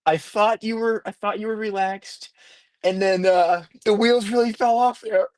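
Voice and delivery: a hint of Jason's easygoing inflection; Rona impression. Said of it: "That's not a bad Rona impression".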